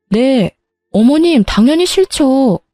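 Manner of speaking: shocked and flatly refusing; aghast refusal. Acted. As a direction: recoil at the idea, voice jumping up. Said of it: "제가 기겁하며 싫다고 딱 잘라 거절하니까".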